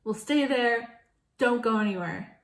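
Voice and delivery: retold stern order to stay put; stern mom order. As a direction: lay down the law. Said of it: "And she's like".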